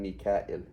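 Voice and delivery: "Mikael" said as mee-ka-il, falling; short -il version. Shown as a demonstration. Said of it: "there's three ways of saying it".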